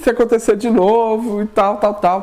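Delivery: high tearful wail; crying. Retold or imitated. Husband crying to wife about it happening again, tearful wail. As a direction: break into a mock sob. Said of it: "chorando, já".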